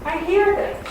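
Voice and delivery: hushed wonder at hearing spirits; amazed realization. Pretend. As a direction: sound like it's suddenly clicking. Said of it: "you'll be going".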